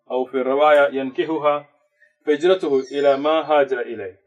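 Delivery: fast Arabic recitation, flowing and unbroken; rapid hadith recitation. Acted. Teacher reciting the famous hadith quickly to the class. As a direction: rattle off the memorized hadith in one breath.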